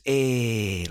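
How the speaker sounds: imitating a Geordie nan's "Eh"; Geordie accent. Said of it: "like that".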